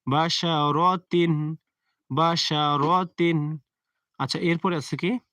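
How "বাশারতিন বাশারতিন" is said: "বাশারতিন" very slow, ending on a clear n in "তিন"; hidden nun sounded. Shown as a demonstration. Teacher shows how tanween is read, slow "বাশারতিন" ending in n. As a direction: stretch each syllable of "বাশারতিন", close "তিন" on n. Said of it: "এখানে একটা নুন লুকাই আছে".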